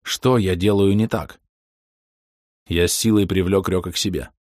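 usual speaking voice

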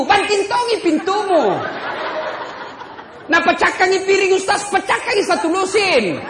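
preacher firing up the men; fiery preaching. Acted. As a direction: rouse the men with laughter. Preaching at full force.

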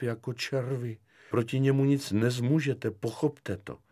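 hushed, imploring dread; anxious pleading. Acted. Lieutenant begs Kefalín to drop complaint, fearful plea.

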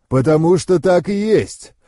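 a touch of dragon's thunder; lightly voiced dragon, emphatic. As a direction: answer as a mighty, blunt dragon.

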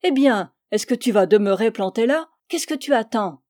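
mildly gruff shout-out to a shipmate; gruff call. Acted. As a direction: bark it lightly across the deck. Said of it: "de sa voix bourrue".

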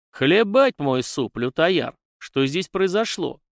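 loud, drawn-out oath, then a high, slow question; breathless exclamation. A narrator's reading. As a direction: burst out in alarm on arriving at the scene. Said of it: "выдохнул он". (громкий взволнованный возглас)

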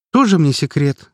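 dismissive, stress on тоже; scoffing at the secret; scornful snort. A narrator's reading. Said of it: "фыркнула её подруга".

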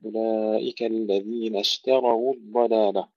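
اشتروا with a thin ت then a heavy ر; light ta, heavy ra. Shown as a demonstration. Teacher demonstrates the word for students. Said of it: "ترقيق التاء وبعدها تفخيم الراء".

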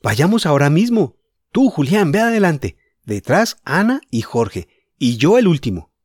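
put-on boy thrilled by adventure; enthusiastic. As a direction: organise the group with gusto. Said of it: "entusiasmado con la idea".

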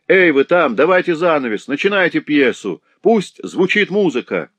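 high, loud heckling yell; gallery shout. A narrator's reading. Lame boy heckles the fighters in the cellar, shouting. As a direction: bawl at the stage like a rowdy theatregoer. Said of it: "Затем он испустил крик".

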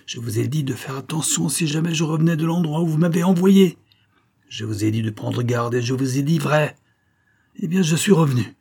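high, strained, building tirade; howling with rage. A narrator's reading. Escaped man grappling with the major who sent him away, howling. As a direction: let the pitch climb in furious accusation. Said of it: "hurlait-il".

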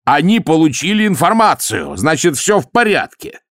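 high mocking exclamation; mock their excuse to the captain; sarcastic mockery. A narrator's reading. Vimes mocking Boggis to the captain, high and sarcastic.

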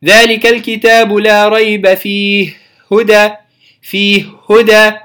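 measured recitation of ذلك الكتاب; Quran recitation. Shown as a demonstration. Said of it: "ليا نفس الكلام". (تلاوة مجودة)

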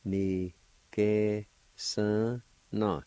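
ni, ke, sun, na, each syllable alone; teacher modelling ni, ke, sun, na deliberately; syllable-by-syllable pronunciation. Shown as a demonstration. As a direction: sound out ni, ke, sun, na with pauses. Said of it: "pronounced like this".

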